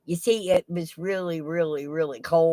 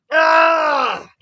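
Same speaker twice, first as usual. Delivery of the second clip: excited cry; 10 semitones higher, 9 dB louder than usual. Real, not acted. Showing off sidekick.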